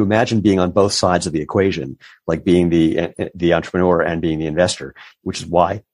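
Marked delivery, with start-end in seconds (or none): 2.3-5.8 talking with hiccups; hiccupping between words. Real, not acted. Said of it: "pardon me, I got the hiccups".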